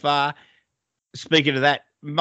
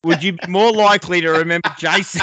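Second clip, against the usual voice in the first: retold incredulity; 4 dB louder than usual. Re-enacts disbelief at bloke's reply.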